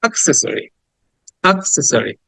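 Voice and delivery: "অ্যাক্সেসরি" with a brief "আ" in place of "অ্যা"; short schwa start. Shown as a demonstration. Teacher repeating accessory for students to copy, brief schwa start. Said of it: "না বলে বলছি আ".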